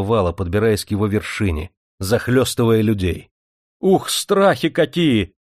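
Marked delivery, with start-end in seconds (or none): 3.8-5.3 high, slow cry of fright; frightened exclamation. A narrator's reading. Factory woman backing away from the flood, frightened exclamation. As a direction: gasp out the dread in a raised pitch. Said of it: "Испуганно отступила заводская жонка".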